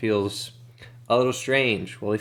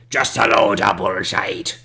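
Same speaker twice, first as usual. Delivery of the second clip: louder jeering shout from down the hill; a stranger yells from further down the ridge; distant heckler yell; 7 dB louder than usual. Acted. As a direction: heckle them from afar. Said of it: "yells from further down says".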